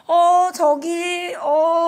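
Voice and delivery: very slow, high, loud halting words; stumble, can't get it out; flustered stammer. Retold or imitated. Upset little one stammering to teacher, high and slow. Child too upset to speak.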